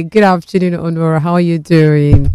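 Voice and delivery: talking through popcorn; a mouth full of popcorn. Real, not acted. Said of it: "With my mouth full of popcorn".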